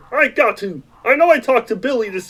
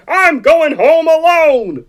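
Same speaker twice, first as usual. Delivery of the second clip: angry shout; 5 semitones higher, slower than usual. Acted. George shouting at Clarence.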